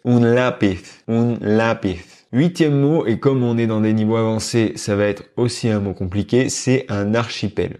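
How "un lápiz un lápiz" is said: Castilian Spanish accent. Shown as a demonstration. Teacher shows how a Spaniard from Spain says "lápiz", in a Castilian Spanish accent. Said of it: "un espagnol d'Espagne dirait".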